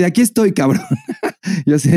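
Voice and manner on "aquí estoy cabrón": cocky bee. Pretend.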